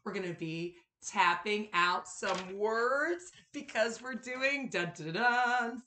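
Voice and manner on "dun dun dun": exaggerated word endings. Teacher builds suspense before topic.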